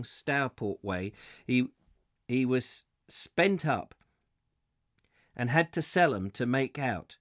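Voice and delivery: West Country yarn-spinner's voice; West Country accent. Acted. Boatman telling how he bought his donkeys back, West Country accent. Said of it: "doing it in a West Country accent".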